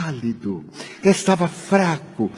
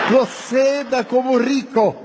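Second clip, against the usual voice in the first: raised, slowed, emphatic; mock lofty advice; 5 semitones higher than usual. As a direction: pronounce it like grand advice. Son's mock advice, shouted. (conselho em tom solene e alto)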